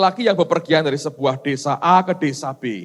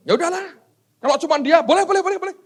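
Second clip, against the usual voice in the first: resigned God voice; 12 semitones higher, 3 dB louder, faster than usual. Acted.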